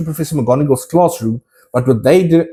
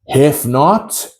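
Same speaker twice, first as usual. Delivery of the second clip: Sorting Hat voice; 2 semitones higher, slower than usual. Retold or imitated. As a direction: drawl the doubts, then burst out the house name. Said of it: "my impression of the famous Sorting Hat voice".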